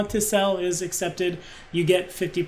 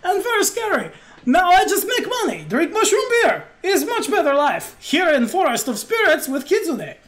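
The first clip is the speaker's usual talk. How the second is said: high, lilting innkeeper in broken English; pitched-up, contented foreign character; jolly innkeeper; 11 semitones higher, 4 dB louder than usual. Acted. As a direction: explain it all with childlike gusto and a thick accent.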